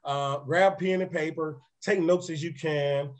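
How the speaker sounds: hoarse, raspy speaking voice. Real, not acted. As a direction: talk through a raspy throat. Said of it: "Get used to this raspy voice".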